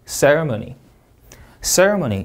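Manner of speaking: "ceremony" with CER stressed; CER-emony, "ceremony" falling away; syllable stress. Shown as a demonstration. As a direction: lean on CER at the front of "ceremony". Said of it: "이름절 강세입니다".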